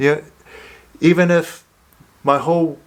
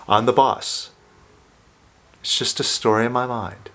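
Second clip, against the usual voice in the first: tender self-affirmation. Shown as a demonstration. Coach modelling an affirmation for listeners, gentle and tender. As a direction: say it to yourself like a loving promise. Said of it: "All right, so say it".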